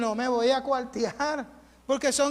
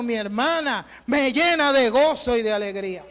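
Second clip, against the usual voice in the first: raised, ringing pulpit voice that builds and drives; fervent preaching; 3 semitones higher than usual. Acted. Pastor urging his flock to rejoice together, fervent preaching. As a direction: exhort the church with rising passion.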